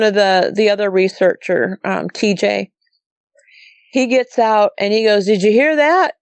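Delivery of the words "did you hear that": higher-pitched imitation of urgent asking; retold startled question. Researcher getting out to ask about a howl, startled. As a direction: retell his startled question, voice lifting.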